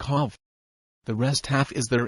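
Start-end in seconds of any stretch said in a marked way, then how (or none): 0.0-0.4 hov said slowly with a long open a and no R; French-style hov. Shown as a demonstration. Showing listeners how a Frenchman says have, slow and open. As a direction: stretch out hov, the long a of hard without the R. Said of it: "so have sounds like hov".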